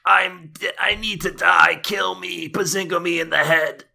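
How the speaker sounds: high whiny mock anguish; mock despair. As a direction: ham up wanting to die. Mock despair after joke.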